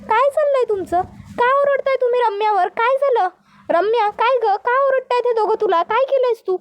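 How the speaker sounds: alarmed questioning. Acted. Bride confronts men over their shouting, alarmed. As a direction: demand to know what the row is about.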